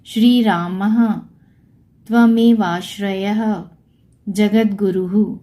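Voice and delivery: slow, each of रामः, त्वमेवाश्रयः, जगद्गुरुः ending in an echoed "h"; visarga pronunciation. Shown as a demonstration. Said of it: "तो ह की आवाज़". (धीरे, रामः, त्वमेवाश्रयः, जगद्गुरुः के अंत में "ह" की आवाज़)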